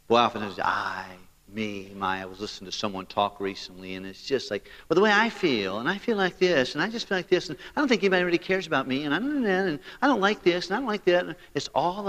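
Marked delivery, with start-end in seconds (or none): 4.9-11.2 higher, whiny self-pitying rambling; mocking a complainer. Preacher mimicking a self-absorbed person, higher mock whine. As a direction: parody someone who only talks about themselves. Mocks a self-centred talker.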